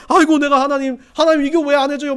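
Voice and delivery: loud, high mock plea to God; imitated wailing. Preacher acts out believers complaining to God, mock wailing. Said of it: "막 울부짖으면서 뭐라고 그러니까".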